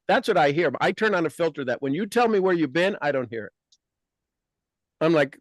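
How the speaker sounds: ordinary talk, nothing marked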